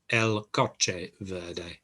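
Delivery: "el coche verde" said slowly in Spanish; teacher spelling out "el coche verde" with a slow, even pace; Spanish pronunciation. Shown as a demonstration. Teacher modelling "el coche verde" for learners. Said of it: "Verde, exactly the same".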